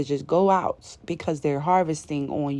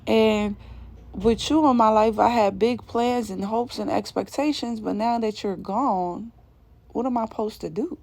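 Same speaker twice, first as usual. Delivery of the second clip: whiny mock lament; 4 semitones higher than usual. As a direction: play a clingy friend mourning lost summer plans. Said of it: "They're like".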